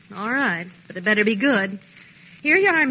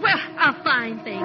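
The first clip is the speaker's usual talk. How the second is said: lower, near crying; tearful; 6 semitones lower than usual. Acted. Wife hurt that he spent money on bees, tearful. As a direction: choke back tears of indignation. Wife upset over bee purchase.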